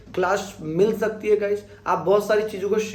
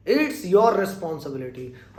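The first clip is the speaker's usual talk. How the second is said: very slow, each word of It's your responsibility laid out; slow model sentence; 3 semitones lower, much slower than usual. Shown as a demonstration. Teacher slowly modelling the sentence for students. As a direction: dictate it to the class slowly. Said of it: "तुम सभी की responsibility".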